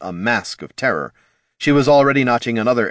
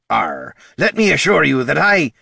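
high, louder gruff pirate snarl; snarled threat; 7 semitones higher, 5 dB louder than usual. A narrator's reading. Pirate captain snarling at Bert to get out. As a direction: snarl it at the little kobold to drive him off.

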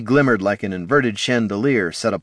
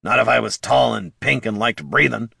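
mildly menacing kobold retort; touchy, threatening comeback; growled threat; 4 semitones higher than usual. Acted. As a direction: growl a warning, slightly raised. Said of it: "Bert growled".

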